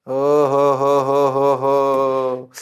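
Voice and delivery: drawn-out slow "ओ हो हो" chuckle-exclaim; hammed-up teacher's oh-ho-ho; mock exclamation. Teacher hams it up to students, slow mock exclamation.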